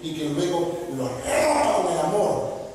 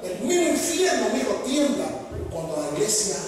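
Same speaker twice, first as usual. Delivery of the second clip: much higher, impassioned proclamation; fiery preaching; 4 semitones higher than usual. Acted. Preacher thundering at pastors about hell trembling. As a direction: let it ring out.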